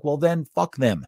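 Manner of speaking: slow, deadpan brush-off in an altered voice; a flat I-don't-care comeback, slow; dismissive retort. Retold or imitated. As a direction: shrug it off slowly. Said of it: "I'm like".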